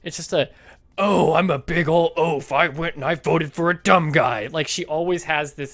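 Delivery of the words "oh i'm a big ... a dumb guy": loud mock dimwit, slow and heavy at the start; oafish voice. Mom mocking a foolish voter, oafish caricature. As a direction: play a big dumb oaf, leading with a long "oh". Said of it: "like, really oafish".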